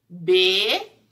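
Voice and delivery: "Beterraba" with a long, separate "Be"; syllable by syllable. Shown as a demonstration. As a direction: hold "Be" in "Beterraba", pause, then finish. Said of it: "começa com a sílaba".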